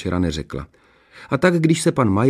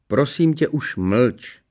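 exasperated plea for silence; embarrassed interruption; 4 semitones higher, much slower than usual. A narrator's reading. Princess silencing her embarrassing sister, exasperated. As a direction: cut her off. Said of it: "přerušila ji princezna Arabela".

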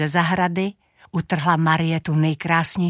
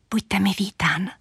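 whispered welcome. A narrator's reading. Shy girl welcoming the handsome stranger, half-whispered. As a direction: greet them in a light near-whisper. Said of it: "zašeptla".

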